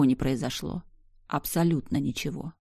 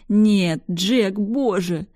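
terrified cry; 4 semitones higher, 6 dB louder, much slower than usual. A narrator's reading. Friend wrestling a monster.

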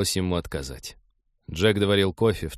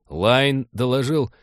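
war correspondent; 2 semitones higher, slower than usual. Acted. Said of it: "закадровым голосом военного корреспондента вещал Олег".

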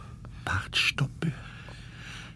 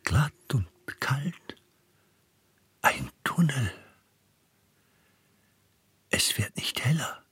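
whispered inner monologue. Acted. Man groping through a black tunnel, whispering his thoughts. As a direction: whisper your thoughts alone in the dark.

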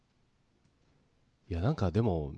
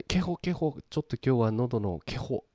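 cute moe voice; 3 semitones higher than usual. Retold or imitated. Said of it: "萌え声".

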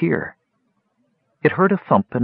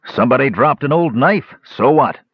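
harsh goblin voice; 4 semitones higher than usual. Acted. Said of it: "A voice as harsh said".

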